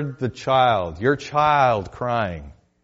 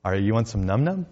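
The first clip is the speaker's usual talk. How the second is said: mock childlike baby talk; 2 semitones lower, 4 dB quieter than usual. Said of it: "what does he say".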